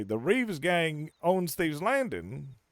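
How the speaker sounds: slow disbelieving echo of The Reeves gang owns Thieves Landing, rising at the end; incredulous repeat. Retold or imitated. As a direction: repeat her claim back slowly as if it's absurd. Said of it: "I say".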